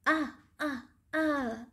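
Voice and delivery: short, pretend "ah" of hurt; three little play-acted ouches; mock cries of pain. Teacher as the monkey with a bumped knee, mock pained cries.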